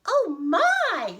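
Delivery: high, loud cry of shock; hammed-up fright, pitched high; startled tiny old woman. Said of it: "said the tiny old woman".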